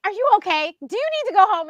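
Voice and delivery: high, loud worried questions; imitating fussing, anxious friends; retold flustered check-up; alarmed concern. Retells clients' alarmed concern.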